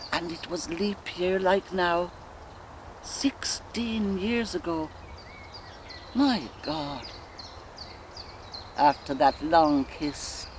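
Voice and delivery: musing woman's dramatic monologue, long pauses; Molly Bloom. Acted. A wife recalling her courtship aloud, dreamy reverie with flashes of defiance. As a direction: drift from memory to memory, savouring each.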